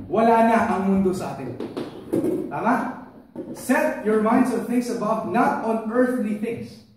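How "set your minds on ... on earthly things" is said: slow, deliberate scripture reading; slow verse reading. Shown as a demonstration. Pastor reading the verse to the church, slow and deliberate. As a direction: read it out word by word, slowly. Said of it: "reads verse slowly".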